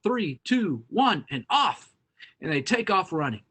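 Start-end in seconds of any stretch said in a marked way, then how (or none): 0.0-1.9 slow, higher race-start call; called-out countdown. Acted. Field mouse starting one more race, calling out slowly. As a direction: draw out each count like a mock starter. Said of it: "the field mouse calls off".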